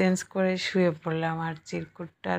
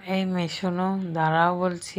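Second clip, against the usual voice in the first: put-on a firm call after a running girl, louder on the second phrase; hey, stop, raised call; calling out loudly; 4 dB louder than usual. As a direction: call her back, raising the voice. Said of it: "চিৎকার করে ডাকতে লাগলো".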